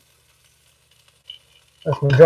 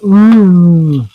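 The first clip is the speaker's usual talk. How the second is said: imitating dog's ooh; 6 semitones higher, 12 dB louder than usual. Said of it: "the big dog just did a".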